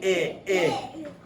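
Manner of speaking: "it" as a clipped short vowel; short i sound "it" with a laugh; short i demo. Shown as a demonstration. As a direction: chop out "it, it" quickly. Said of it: "I says it".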